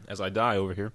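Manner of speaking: dusty coughing fit; coughing on dust. Real, not acted. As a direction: cough out the dust, then talk. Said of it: "I think I breathed in some dust".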